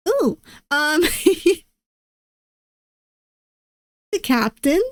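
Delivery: high, giggly pick; giggling, hoping for the captain. Real, not acted. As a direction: laugh as you choose.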